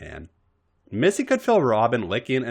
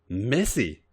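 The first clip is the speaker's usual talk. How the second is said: soft and reverent. A narrator's reading. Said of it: "spoke her name softly, reverently".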